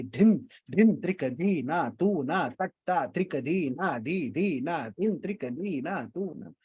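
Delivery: softly reciting the bols in rhythm; reciting tabla bols. Retold or imitated. Teacher retells teaching a tabla player the bols. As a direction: chant धिन, धिन, त्रिक, धी evenly as tabla syllables. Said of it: "उसको मैंने दस बार सिखाया".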